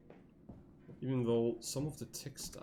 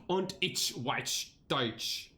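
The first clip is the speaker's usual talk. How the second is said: mock German reading; slower than usual. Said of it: "Time to do the German".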